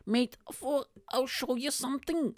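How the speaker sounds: high-pitched mimicked drunk; drunk guy impression. Drunk stranger offering comedian a show, high mimicked voice. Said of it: "the guy was like".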